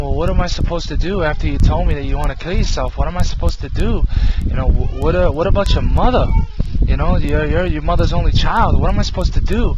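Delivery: retold plea, pitch climbing on the repeated question; pleading. Retold plea to suicidal cousin.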